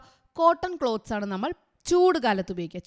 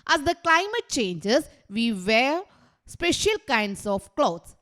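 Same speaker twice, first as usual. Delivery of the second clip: words drawn out very slowly for note-taking; teacher reading a sentence out very slowly; slow dictation; much slower than usual. Shown as a demonstration. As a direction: dictate it word by word. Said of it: "നിങ്ങൾ എഴുതിക്കോളുക കേട്ടോ".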